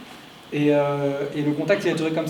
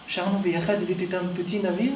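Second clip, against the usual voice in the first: an old man's foreign accent, lightly put on; a hint of his accent on the song line; Moshe's accent; 3 semitones higher than usual. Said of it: "avec son accent".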